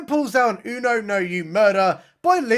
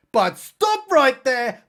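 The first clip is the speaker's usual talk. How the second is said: slow, louder, higher trailer-voice halt; dramatic announcer; 7 semitones higher, 5 dB louder, slower than usual. Pretend. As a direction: boom it like a movie trailer. Dramatic narrator interruption.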